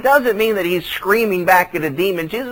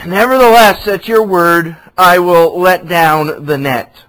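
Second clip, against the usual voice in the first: firm resolve; 2 semitones lower, 5 dB louder than usual. Acted. Peter's resolve, scripture reading.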